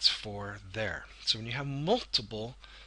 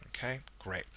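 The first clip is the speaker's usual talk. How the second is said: whispered aside; 10 dB quieter than usual. Real, not acted.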